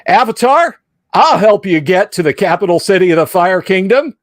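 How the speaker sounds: mock Midwestern accent; flat Midwestern accent. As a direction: play it plain Midwestern. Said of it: "flat Midwestern accents".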